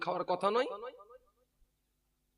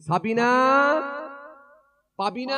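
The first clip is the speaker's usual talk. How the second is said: calling out; 8 semitones higher, 7 dB louder than usual. Acted. Father calls daughters at night.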